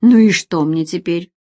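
irritated man barks at his lover; irritated snap. Acted. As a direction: snap it back at her. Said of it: "рявкнул он раздражённо".

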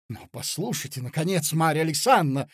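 loud bewildered protest; baffled cry. Acted. Mozglyakov protesting to Marya, baffled and loud. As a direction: cry out in confused indignation. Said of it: "вскричал озадаченный Мозгляков".

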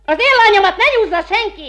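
high, loud shout; mother shouting back at the accuser; furious shout. Acted. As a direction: yell it to defend her daughter. Mother defends her daughter.

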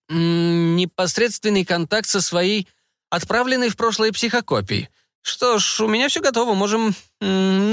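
high, drawn-out scientist voice; fussy scientist. A narrator's reading. Scientist instructing his test subject, high and deliberate. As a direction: play a pedantic researcher, high and measured.

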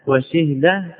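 وشهد as wa-shih-da; وشهد closed up as wa-SHIH-da; kasra, silent ha. Shown as a demonstration. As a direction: say وشهد with i after shin, no vowel on ha. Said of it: "يجوز فيه أربع لغات".

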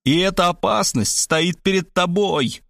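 mildly pompous accusation; solemn pronouncement. A narrator's reading. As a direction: pronounce it slowly and weightily. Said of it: "изрёк я".

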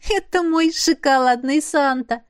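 giggling. A narrator's reading. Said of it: "хихикнула Крис".

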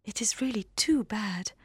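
soft whisper. Acted. Jane whispers her regret to Elizabeth. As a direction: let it drop to a whisper.

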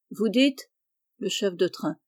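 ordinary delivery, nothing marked

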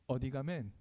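Jeju dialect greeting. Retold or imitated. Pastor shows children how Jeju folks greet, in Jeju dialect. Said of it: "이렇게 인사하는데요".

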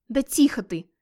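sharp urgent hiss to hush her; hissed threat. Acted. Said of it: "прошипел вампир". (злобное шипение)

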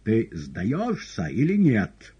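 slow, loud menacing demand; terrible shout. A narrator's reading. Woland demands surrender, slow loud roar. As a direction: roar the question. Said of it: "прокричал страшным голосом Воланд".

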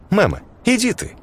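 high yelled brush-off; shouted retort. A narrator's reading. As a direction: fling it back at mother, high. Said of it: "выкрикнула Ж Ш". (выкрикнуть высоко)

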